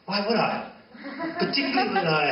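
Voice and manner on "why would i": ordinary delivery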